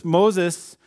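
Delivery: hammed-up complaint to Moses; complaining Israelites. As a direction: people pleading with Moses in the desert, mock whiny. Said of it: "crying out to Moses".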